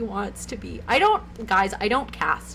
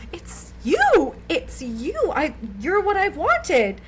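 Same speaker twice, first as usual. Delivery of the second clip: high, mock-gushing fan outburst; starstruck mom; 6 semitones higher, slower than usual. Mom spotting a famous singer at her table, mock starstruck. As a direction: imitate a mom thrilled to spot her idol.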